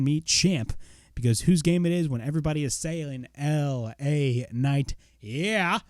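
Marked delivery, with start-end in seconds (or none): 3.3-5.8 lightly imitated wrestler promo; L A Knight. Fan imitating a title challenger's promo, lightly cocky. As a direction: wrestler impression, stretching the name at the end. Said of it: "my little, uh, L A Knight, uh, impression".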